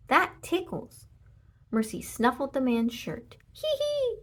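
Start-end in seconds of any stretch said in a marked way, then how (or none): 0.1-1.1 giggly protest. A narrator's reading. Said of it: "the little man said". 3.5-4.2 very high giggle; ticklish giggle. A narrator's reading. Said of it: "he said again".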